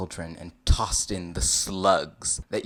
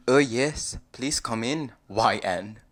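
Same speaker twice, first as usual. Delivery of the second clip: louder, hospitable character voice; lightly voiced welcoming ogre; 3 semitones higher, 6 dB louder, slower than usual. Shrek inviting you inside, lightly put-on welcome. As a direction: usher the guest in heartily.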